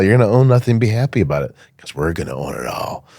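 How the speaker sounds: mock cheerful ad. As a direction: parody a grinning pitchman promising you'll love it. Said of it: "they have a commercial about this guy, big old smile".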